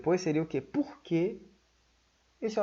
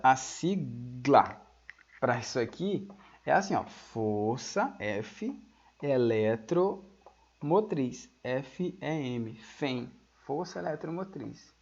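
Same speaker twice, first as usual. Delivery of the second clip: each word drawn out, softer; slow dictation; 4 semitones lower, 4 dB quieter, much slower than usual. Shown as a demonstration. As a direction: dictate the acronym slowly for the notes. (ditando a sigla devagar)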